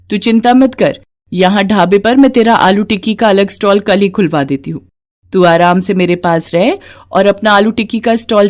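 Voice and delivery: a motherly woman scolding the absent husband, then soothing; indignant kindly friend. Acted. Sheela comforting Mangla, mild indignation then warmth. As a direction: take her side and comfort her.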